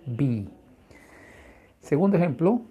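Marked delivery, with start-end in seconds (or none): 0.1-0.5 BEE with a long ee; long vowel. Shown as a demonstration. Teacher showing learners the double E, long-vowel BEE. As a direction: draw out the ee in BEE. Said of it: "sería una I larga".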